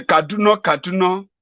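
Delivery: high, wondering repeat of the name; muddled old man. Pretend. Confused Buhari repeating the town name in wonder. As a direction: say it as if the name means nothing.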